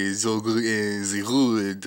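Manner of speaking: slow, with a French accent, zi hood. Shown as a demonstration. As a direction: try the slang in a French accent. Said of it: "I'm from France".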